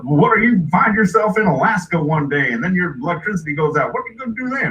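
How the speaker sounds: fast, lightly voiced persuading rube; insistent hillbilly father. Dad pushing his generator, insistent hillbilly. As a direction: argue the case, rising at the end.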